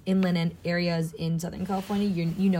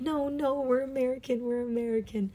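giggly denial; 6 semitones higher, 4 dB quieter than usual. Retold or imitated. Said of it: "like, giggling".

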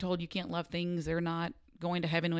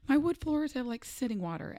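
mock panic; 7 semitones higher than usual. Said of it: "And I was panicked".

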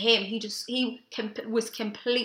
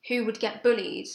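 ordinary talk, nothing marked

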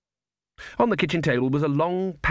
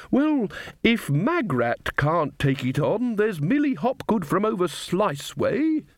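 put-on old witch voice; 8 semitones higher, slower than usual. A narrator's reading. Gamma Brevis speaks.

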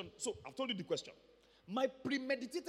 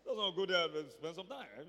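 arrogant; 4 semitones lower than usual. Retold or imitated. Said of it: "in his very arrogant self".

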